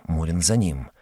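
ordinary delivery

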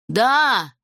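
drawn-out booming yes; forceful dragon declaration; thunderous proclamation. A narrator's reading. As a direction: announce it grandly, full voice. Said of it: "громогласно возвестил Зак".

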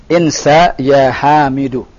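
"Insa ya Hamidu" slow, falling at the end; command intonation. Shown as a demonstration. Teacher correcting the student's tune, command intonation. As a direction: drop the end of "Hamidu" as an order.

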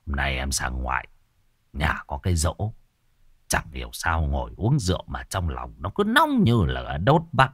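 low and hushed, telling his odd feeling; lightly voiced Đăng. A narrator's reading. Đăng tells the villager why he hurried home, low and hushed.

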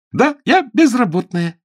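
put-on bright, lilting high girl's voice, breezy about being sacked; cheerful. Sue cheerfully tells Ronnie she was fired, lightly. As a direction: toss it off gaily, as if it's good news. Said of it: "весело сказала Сью".

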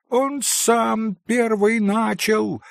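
put-on high, slow, peeved little boy; irritated child's voice. A narrator's reading. Boy in red shirt defends himself, mildly irritated childish voice. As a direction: whine it like a wronged child. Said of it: "раздражённым детским голоском".

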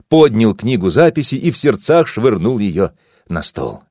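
usual speaking voice

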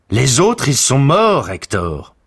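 loud, high cry of bad news; Paris shouting at Hector in battle. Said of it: "lui cria Paris".

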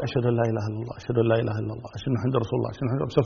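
low, soft, hushed recitation. Shown as a demonstration. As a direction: recite the testimonies softly in a dropped voice. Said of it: "بصوت منخفض".

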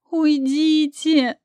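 slow high pleading cry; drawn-out desperate plea. Acted. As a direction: beg them to go, in despair. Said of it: "в отчаянии умоляла я".

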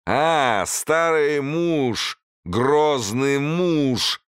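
put-on very slow, high slurred drunk; drunk slurring. A narrator's reading. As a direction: drag the words like a drunk. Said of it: "заплетающимся языком пробормотал".

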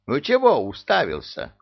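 loud irritated snap; angry bark. Acted. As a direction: bark at the gawking underling. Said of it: "Сердито рявкнула жаба".

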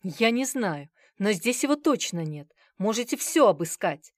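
loud, panicky near-shout; almost shouting. Acted. The sweating manager pleading with Bazarov, near-shout. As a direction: nearly yell it in fear. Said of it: "почти крикнул управляющий".

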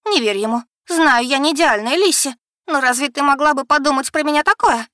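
high, loud tearful begging; отчаянно умоляя; desperate plea. Acted. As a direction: plead with Lissi to trust her. Becky begs her sister.

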